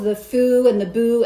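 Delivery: ordinary talk, nothing marked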